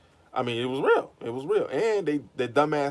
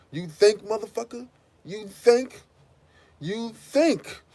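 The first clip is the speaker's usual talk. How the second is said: high, loud mocking "you think?"; shrill incredulous mock shout; incredulous yell; 9 semitones higher, 5 dB louder, slower than usual. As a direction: throw it back at him in disbelief. Mocking the confessor, yelling back.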